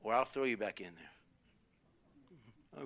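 mild imitation of an unmoved dad; unloving dad. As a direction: lay down the law without sympathy. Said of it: "There was no love in that voice".

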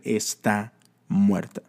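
slow, grave "Está muerta"; ominous voices. Retold or imitated. Voices tell Jairus his daughter died, slow and grave. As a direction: let the voices drag out the death news. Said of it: "voces literalmente diciéndole".

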